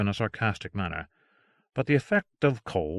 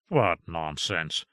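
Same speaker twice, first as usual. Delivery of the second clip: scoffing; 5 semitones lower, slower than usual. Acted. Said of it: "cried Strange".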